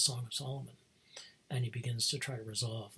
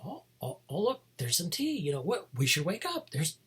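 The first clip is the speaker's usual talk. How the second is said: body waking up; 5 semitones higher than usual. Retold or imitated. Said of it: "body starts to go".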